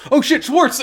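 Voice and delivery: very high, loud laughing yelp; hammed-up sudden panic; mock alarm. Domon remembering Schwartz, high laughing mock alarm. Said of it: "And Domon's like".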